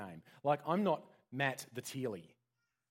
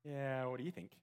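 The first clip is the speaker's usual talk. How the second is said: casual, offhand; 5 dB quieter than usual. Shown as a demonstration. Preacher mimics how Jesus didn't ask the disciples, offhand. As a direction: toss it off as a throwaway question. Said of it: "He doesn't go".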